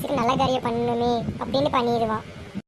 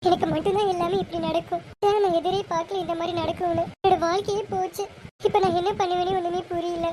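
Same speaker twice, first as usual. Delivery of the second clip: mildly tearful, higher-pitched lament; 3 semitones higher than usual. Acted. Bride alone laments her ruined engagement, tearful. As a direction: lament as if close to crying. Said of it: "ஏன்க்கா அழுகுற".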